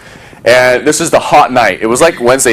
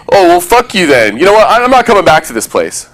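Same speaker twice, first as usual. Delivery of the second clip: mock angry retort; 6 semitones higher than usual. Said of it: "Did I say".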